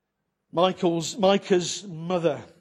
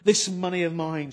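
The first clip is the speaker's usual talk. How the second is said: mother's curse; 2 semitones higher than usual. Retold or imitated. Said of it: "she says".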